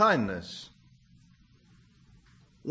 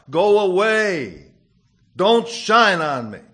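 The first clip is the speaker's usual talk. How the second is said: angry command; 2 semitones higher, 7 dB louder than usual. Acted. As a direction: push the sun away with it. Pond orders sun away.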